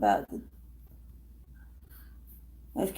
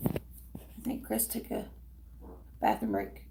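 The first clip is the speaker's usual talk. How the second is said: whispering; 14 dB quieter than usual. Real, not acted. Aside while partner is away.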